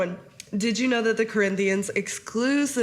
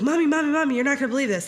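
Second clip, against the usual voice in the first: put-on excited kid; 5 semitones higher, 3 dB louder, much faster than usual. Excited child voiced in story.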